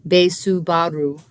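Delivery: Beisubaru said as Japanese bei-su-ba-ru; Japanese pronunciation. Shown as a demonstration. Teacher to students, Japanese Beisubaru demo. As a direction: sound out Beisubaru syllable by syllable. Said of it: "I believe it's pronounced something like".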